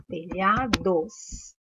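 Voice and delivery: Telhados drawn out very slowly, syllable by syllable. Shown as a demonstration. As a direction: spell out Telhados slowly so they hear the LH. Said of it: "Qual é o dígrafo da palavra telhados?". (Telhados bem devagar, sílaba por sílaba)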